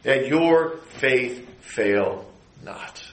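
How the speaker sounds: Jesus comforting Peter, slowly; tender promise. Acted. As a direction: reassure him word by word. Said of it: "Simon Peter".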